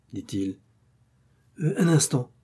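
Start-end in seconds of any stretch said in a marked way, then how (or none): 1.6-2.3 balbutiement. Acted. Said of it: "balbutia l'ivrogne".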